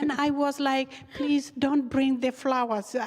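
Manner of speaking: amused, half-laughing plea. Real, not acted. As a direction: laugh as you tell it. Laughing retelling of flowers.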